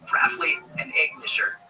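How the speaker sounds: "Rafley" and "egg nisher" read as Strine, Australian-style; Strine words. Shown as a demonstration. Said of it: "the Strine versions of phrases".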